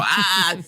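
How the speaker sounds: high, loud theatrical "Ah"; Richard the Third-style cry. Retold or imitated. Actor overplaying a humpback role, theatrical cry. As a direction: cry out high like a hammy Shakespearean villain. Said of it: "totally went like Richard the Third".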